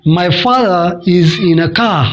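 "father" as "fadha", "car" as "ka", no R, British accent. Shown as a demonstration. Teacher demonstrates the British accent to students. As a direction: drop the Rs like a British speaker. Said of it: "Britain में बोलेंगे".

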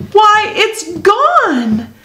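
put-on high, slow, a touch of childish sadness; sadly. Sal realizes her tooth is lost, slow and a little sad. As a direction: let it sink in slowly and sadly. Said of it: "she said sadly".

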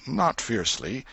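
ordinary delivery, nothing marked

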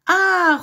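high, loud, drawn-out ah; sniffing "ah". A narrator's reading. Mother hen sniffing the soup, high long ah. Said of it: "renifla la mère poule".

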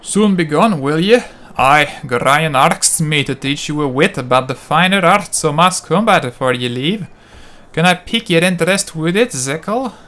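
gruff Scottish trainer, badly faked Scottish accent. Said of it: "horrible job at doing a Scottish accent".

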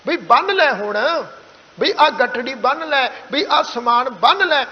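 everyday phrases with ਬੰਨ pressed into a half h. Shown as a demonstration. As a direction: lean on the n of ਬੰਨ with a touch of h. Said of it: "ਅੱਧਾ ਹਾਹਾ ਦੇ ਕੇ ਥੋੜ੍ਹਾ ਦਬਾਅ ਨਾਲ". (ਬੰਨ ਥੋੜ੍ਹਾ ਦਬਾਅ ਨਾਲ)

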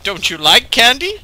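coaxing robot, lightly imitated; sweet luring robot tone; calming robot voice. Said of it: "the robot says something calming like".

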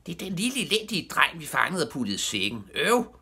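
high, outraged yelling; high-pitched frustrated outburst; screaming. A narrator's reading. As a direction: complain at the top of your pitch. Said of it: "skreg Knalle dernede fra".

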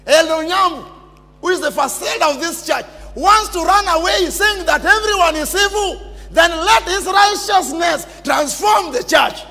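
rally the congregation to stay; fiery preaching. Acted. Preacher urging the elders to stay, fiery preaching. Preacher exhorts church not to run.

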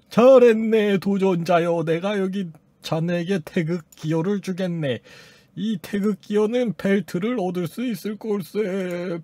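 put-on bestow the prize like an old master; lordly game master. Reads game master's praise in character.

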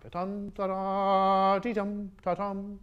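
slow sung phrase ending on ta-dum left open like a question; questioning last note. Shown as a demonstration. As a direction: let the final ta-dum hang unresolved. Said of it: "the last note should be a question mark".

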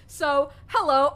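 slow, polished cabin greeting; flight attendant voice. Acted. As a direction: greet them like cabin crew. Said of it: "talking like a flight attendant".

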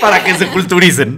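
teasing through laughter; laughing. Real, not acted. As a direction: repeat it while cracking up. Teasingly repeats the slip, laughing.

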